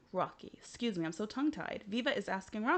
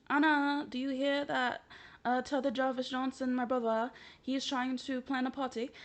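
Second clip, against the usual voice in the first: tattling sister; 4 semitones higher than usual. Retold or imitated. Sister tattling about brother's party.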